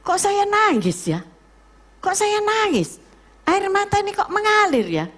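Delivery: high, loud, amazed asking; surprised. Retold or imitated. Preacher relives crying in church, high and amazed. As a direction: wonder aloud why the tears come. Retells surprise at own tears.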